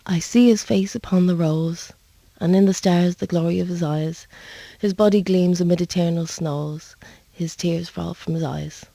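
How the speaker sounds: measured, reverent poem reading; poem recital. Shown as a demonstration. Singer reciting a nuns' poem to the host, reverent. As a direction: recite it gently, like a prayer learned from nuns. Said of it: "Do you wanna hear that?".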